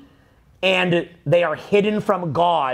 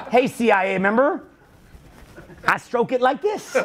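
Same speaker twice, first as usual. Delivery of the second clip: laughing taunt; 3 semitones higher than usual. Pretend. Taunting the CIA.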